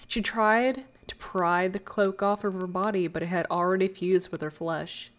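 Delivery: hushed dramatic storyteller voice; story narration. A narrator's reading. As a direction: tell it like a dark fairy tale. Lore story narration opening.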